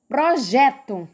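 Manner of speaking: "projeto" with a strong JE; stress on middle syllable. Shown as a demonstration. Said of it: "mais forte foi o gé". ("projeto" com força no JE)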